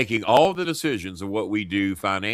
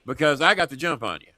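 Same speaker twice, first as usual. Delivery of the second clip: hammed-up taunting threat, pitched up; mock confrontation; 5 semitones higher than usual. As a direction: play a neighbour boasting after a beating. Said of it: "going, "Hey, motherfucker".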